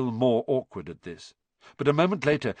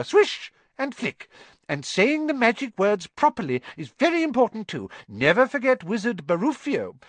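high, squeaky little professor voice; 7 semitones higher than usual. A narrator's reading. Tiny professor coaching his class, high squeak. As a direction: squeak it out like a tiny eager teacher. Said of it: "squeaked Professor Flitwick".

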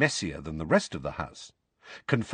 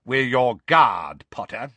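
gruff guard; 3 semitones higher, 6 dB louder, slower than usual. Acted. Moody's voice continues, gruff guard.

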